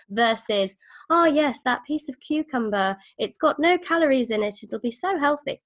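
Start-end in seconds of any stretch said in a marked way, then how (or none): 1.1-5.6 bright, higher mock-cheerful voice; a put-on chirpy dieter, higher; put-on voice gushing over a cucumber; silly voice. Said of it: "I don't know why I did the voice".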